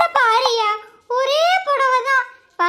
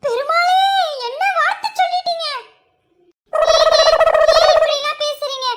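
louder, drawn-out pained plea; loud hurt wail; 2 semitones higher, 6 dB louder, slower than usual. Acted. Wife wailing at her husband's cruel words, loud and slow. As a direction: cry out, wounded.

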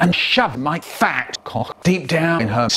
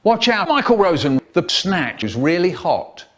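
warning shout. Retold or imitated. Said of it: "he turns to us and he goes".

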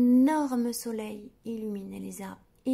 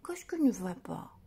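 whisper; 3 semitones lower than usual. A narrator's reading. Doctor asks, whispered.

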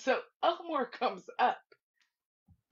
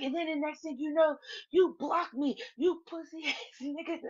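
higher-pitched imitation of a woman's grievance; retold accusing rant; 5 semitones higher than usual. Woman telling Slim he blocked her, mock accusing rant. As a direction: rattle off her complaint, breaking into a laugh.

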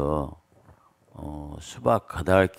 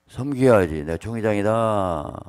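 mock boastful leader; 3 semitones higher, 6 dB louder than usual. Mocking church leader's boast.

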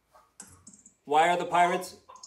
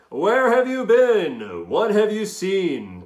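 excited greeting; 4 semitones higher than usual. Acted. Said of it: "they cried".

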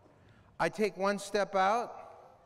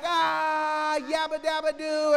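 higher, loud scared shout; startled yell; 8 semitones higher, 3 dB louder, slower than usual. Retold or imitated. Son grabs Dad from the back seat, Dad yells. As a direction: yelp from the jump scare. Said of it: "I'm like".

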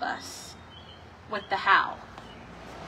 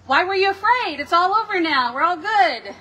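a lightly voiced, easy-going Jesus, a bit louder; breezy all-clear; 3 semitones higher, 3 dB louder than usual. Shown as a demonstration. Preacher imitates the Jesus people expect, casual and dismissive. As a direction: toss it off as if the danger is over. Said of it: "Jesus doesn't say, as you might expect".

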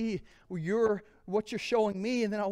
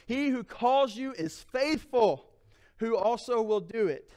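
scripture reading; 2 semitones higher than usual. Acted. Preacher reads scripture aloud.

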